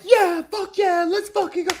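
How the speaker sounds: high hyped-up "fuck yeah" cheer; American sports cheer. Retold or imitated. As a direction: pump it up like a fan. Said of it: "we're like".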